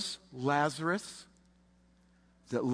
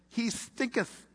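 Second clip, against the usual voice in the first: Norm's quip; 7 semitones higher, slower than usual. Retold or imitated. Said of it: "As my friend Norm would say".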